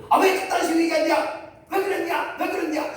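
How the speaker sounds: high, loud irritated snapping back; angry retort. Pretend. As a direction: bristle at the nonsense, loud and high. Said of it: "이렇게 하지 마시고". (높고 크게 짜증 내며 따지듯)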